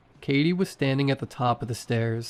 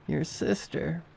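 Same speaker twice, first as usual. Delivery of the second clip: higher, eerie voice like a recording; wrong mimicking voice; 5 semitones higher, 5 dB quieter than usual. A narrator's reading. Undead sister to her brother, eerie mimicked voice. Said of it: "the way that she said it was wrong".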